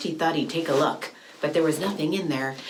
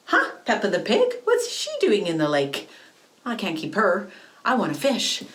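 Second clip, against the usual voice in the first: surprised; 4 semitones higher, 3 dB louder than usual. Retold or imitated. Surprised catching Peppa.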